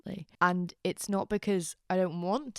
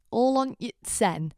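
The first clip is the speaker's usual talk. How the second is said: slow, loud, higher mock Sheffield accent; 5 semitones higher, 6 dB louder, slower than usual. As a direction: draw it out in broad Sheffield. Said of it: "that's the most Sheffield sentence".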